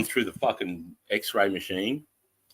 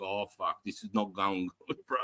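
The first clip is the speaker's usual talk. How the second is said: muttered dread; 9 dB quieter than usual. Retold or imitated. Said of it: "I'm like".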